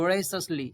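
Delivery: voraciously stressed, vo-RAY-shus-lee with a falling end; voraciously said firmly, falling; teacher demo. Shown as a demonstration. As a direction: repeat voraciously clearly for students. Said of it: "तो".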